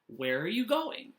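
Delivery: "going" rises at the end; questioning tone. Shown as a demonstration. Teacher models asking a question, "going" rising at the end. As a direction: lift your voice on "going" as a question. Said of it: "I'm gonna raise my voice".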